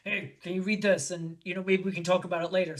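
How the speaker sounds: lightly voiced gruff man, understated; casual handover with a hint of gruffness; gruff big guy. Big gruff screenwriter handing her a script, lightly gruff. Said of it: "big, big guy and kind of gruff".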